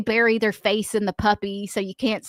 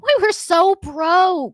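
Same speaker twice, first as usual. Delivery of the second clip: laughing; 8 semitones higher, 4 dB louder, much slower than usual. Real, not acted. Laughing recalling being broke.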